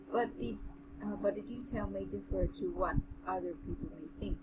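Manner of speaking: even, measured story reading; story narration. A narrator's reading. Reading the general's tale to a friend, measured narration. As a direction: read it aloud in an understated narrator's voice.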